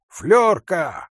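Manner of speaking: loud, high name call; calling the dog. A narrator's reading. Hunter summons his dog before leaving, shouting. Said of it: "крикнул он собаке".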